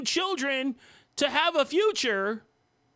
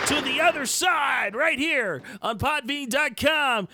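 shouting. Real, not acted. Podcast outro call-out.

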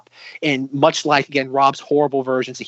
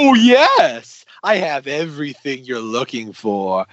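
over-enthusiastic; slower than usual. Acted. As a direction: burst out on the yes, then savour it slowly. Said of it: "the over-enthusiastic way".

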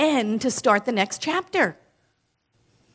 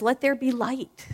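a touch higher proclamation; inner cheerleader; 3 semitones higher than usual. Pretend. Speaker voicing the inner cheerleader proclaiming light. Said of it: "Your inner cheerleader says".

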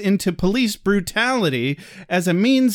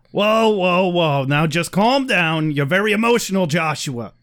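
mock dad. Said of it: "here we go".

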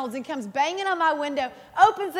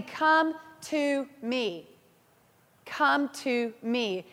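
gentle call; much slower than usual. Acted. God's gentle call, slowed right down.

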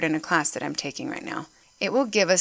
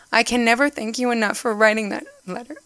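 choked up, the words catching; fighting back real tears while reading the quote; tearful, barely holding it together; voice breaking with emotion; 3 semitones higher than usual. Real, not acted. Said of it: "I'm getting emotional".

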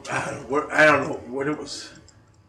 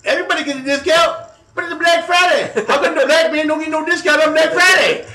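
very high, shouted fake African American accent; hammed-up irate caller with an imitation African American accent; mock African American accent; 8 dB louder than usual. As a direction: shout in outrage in put-on African American English. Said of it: "I did a decent Ebonics imitation".

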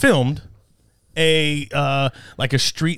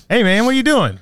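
higher, lightly raised challenge; mild mock yell; 4 semitones higher than usual. Co-host demonstrates confronting a thief, mild mock yell. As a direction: pretend to call out to a stranger. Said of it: "would you have yelled at least like".

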